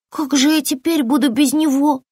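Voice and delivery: high, wavering whine; tearful. A narrator's reading. Lizard mourns her lost tail, high tearful wail. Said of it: "заплакала ящерка".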